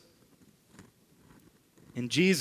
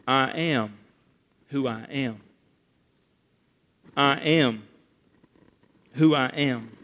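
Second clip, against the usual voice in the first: low, measured voice of God; God's solemn answer; 4 semitones lower than usual. Retold or imitated. Preacher voices God answering Moses, solemn and low. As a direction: give God's answer low, with long pauses. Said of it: "do you remember God's answer".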